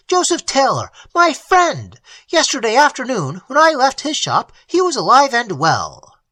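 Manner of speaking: choking anguish. Acted. Elliot grieving his murdered friend, high choked anguish. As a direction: voice climbing in horror. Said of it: "Elliot choked".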